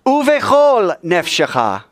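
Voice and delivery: high, drawn-out ringing call; with gusto. Shown as a demonstration. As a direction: lead the congregation in a full-voiced prayer call. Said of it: "say it with some gusto".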